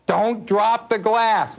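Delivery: high, slow yell across the room; yelled warning. Retold or imitated. Father yelling at his little girl across the room, high and slow. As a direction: call out slow and high to stop a spill. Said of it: "So I yell".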